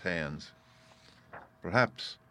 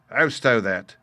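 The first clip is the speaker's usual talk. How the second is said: a touch louder, interrupting; mild exclamation; 8 dB louder, slower than usual. A narrator's reading. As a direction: cut in lightly. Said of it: "the voice of Hans exclaimed".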